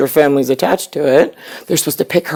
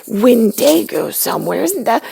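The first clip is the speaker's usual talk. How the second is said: put-on much higher, eager kid voice; a son asking his dad about monsters; imitating her son; 7 semitones higher than usual. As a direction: ask like an excited little boy. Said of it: "he's like".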